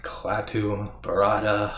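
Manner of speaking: slow, careful chant that trails off unfinished; fumbled incantation. Retold or imitated. Ash slowly reciting the magic words and forgetting the last. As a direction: spell out the magic words slowly, then lose the last one. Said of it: "Damn it, wait a minute".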